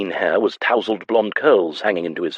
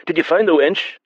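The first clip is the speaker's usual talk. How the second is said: tavern man's voice; 10 semitones higher than usual. A narrator's reading. A tavern man asks.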